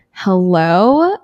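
drawn-out, irritated phone hello with a questioning rise; retold annoyed greeting; most annoyed voice. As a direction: answer like this call is a nuisance. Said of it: "in the most annoyed voice ever".

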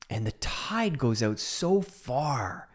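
slow whisper. Acted. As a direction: whisper it slowly, drawn out. Whispered, slowed description.

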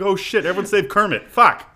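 high, loud squeaky puppet panic; Muppet voice. Retold or imitated. Retelling the barbed wire death as a Muppet, high squeaky voice. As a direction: yelp it like Kermit in trouble. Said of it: "that's my Muppet voice".

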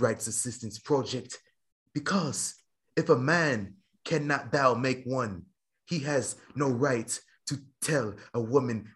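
lightly British orator, measured pauses; William Regal. Acted. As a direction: deliver a mock-solemn wrestling promo, dropping toward the end. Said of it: "Had to get into my big William Regal".

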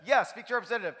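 frustrated, emphatic mock yell; retold yelling. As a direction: re-enact yelling at a phone menu. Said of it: "I'm screaming at the phone".

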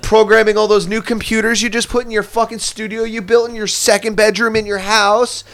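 hammed-up sarcastic pity; sarcastic mock pity. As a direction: sneer at the spoiled complainer, loud and high.

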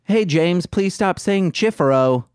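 lightly voiced slight Southern accent; Corwin. Podcaster imitates another host, light Southern-tinged accent. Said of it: "being Corwin from This Movie's Gay".

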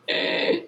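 tiny breathy cat noise; imitated cat squeak. Telling friends how the hidden cat sounded, a small unvoiced squeak. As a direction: mimic a faint cat cry. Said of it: "you would just hear".

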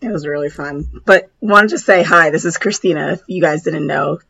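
rough, hoarse, almost-gone voice; lost voice. Real, not acted. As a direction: push words through a gone voice. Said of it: "my voice is so gone".

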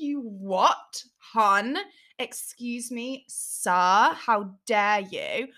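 haughty, drawn-out affront with pauses; mock indignation. Podcaster acts out her retort to doubting boyfriend, mock indignant. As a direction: play up being scandalised, word by word.

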